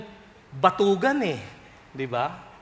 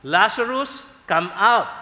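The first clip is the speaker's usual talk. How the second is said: commanding call; 3 semitones higher, 5 dB louder, slower than usual. Retold or imitated. Jesus calling Lazarus.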